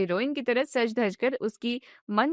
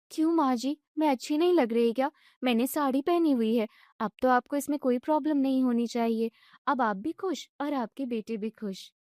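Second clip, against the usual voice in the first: put-on exasperated young wife; 2 semitones higher than usual. Wife lamenting caught between husband and mother-in-law, fretful. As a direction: throw up your hands in despair.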